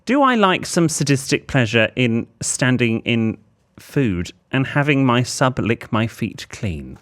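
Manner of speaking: deliberate reading, slowing towards the end; letter read aloud. Acted. Host reads the writer's awkward question to listeners, deliberate letter-reading voice. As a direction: draw out the formal question as you read.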